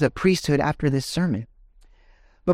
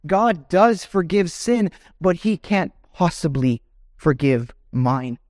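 higher, pleading inner voice of a guilty listener; voicing a doubting believer; 6 semitones higher than usual. Preacher voicing a listener who doubts forgiveness, mildly pleading. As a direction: voice the sinner's anguished doubts, lightly acted. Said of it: "You might be saying".

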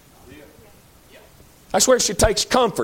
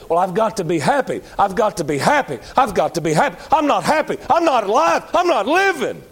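starts even, climbs much higher into a desperate plea; hammed-up desperate complaint building higher; mocking the pleasure seekers; 3 semitones higher than usual. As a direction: imitate a whining seeker, rising till it cries out. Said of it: "what a lot of people's trying to do is".

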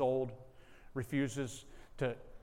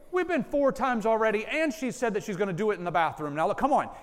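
higher and louder, pressing hard; exasperated; 9 semitones higher, 8 dB louder, faster than usual. Retold or imitated. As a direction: push back, fed up and insistent. Father exasperated, pressing mother.

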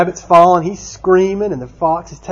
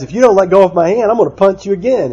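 quick, higher storybook threat; mock threat; 6 semitones higher, 3 dB louder, faster than usual. Stuck rabbit threatens the tar baby, mock angry. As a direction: warn with hammed-up indignation.

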